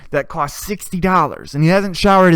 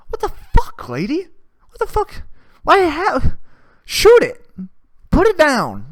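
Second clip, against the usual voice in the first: high-pitched shrieking outrage, much higher and louder; mock outraged yell; 11 semitones higher, 4 dB louder than usual. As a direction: yell at the lady as if she's lost her mind. Mock outburst at the fox owner.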